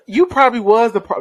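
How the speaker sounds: mock accusation broken by laughter; teasing, laughing. Co-host jokingly blames the guest, laughing. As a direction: tease him with a laugh. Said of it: "I'm just playing".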